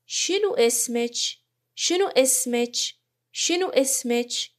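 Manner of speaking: Iraqi Arabic شنو اسمچ, "shinu ismech". Shown as a demonstration. Teacher modelling Iraqi Arabic شنو اسمچ for students, careful.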